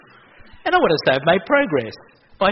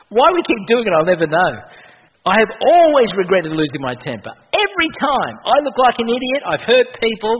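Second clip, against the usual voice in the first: fervent; 7 semitones higher, 7 dB louder than usual. Real, not acted. Preacher building to fervent peak.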